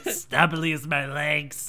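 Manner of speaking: slow raspy smoker voice; cigarette voice. Acted. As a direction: drag it out like a smoker. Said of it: "My voice is about as gr".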